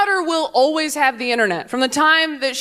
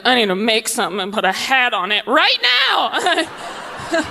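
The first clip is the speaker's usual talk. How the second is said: laughing urgency. Retold or imitated. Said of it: "I was like".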